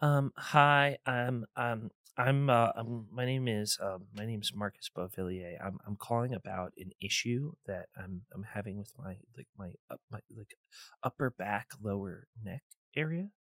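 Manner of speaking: acted shy and nervous. Playing a caller phoning about back pain, acting shy and nervous. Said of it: "I'm very shy".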